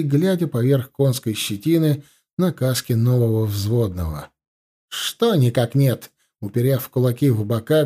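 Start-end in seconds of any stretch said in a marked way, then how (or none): none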